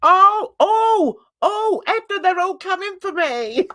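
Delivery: a mild mock cry for help; mock panic. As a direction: play up being hunted, half laughing. Mock panic about chat.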